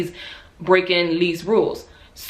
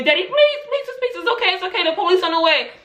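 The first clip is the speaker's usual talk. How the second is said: retold scream; 10 semitones higher than usual. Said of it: "I'm literally screaming".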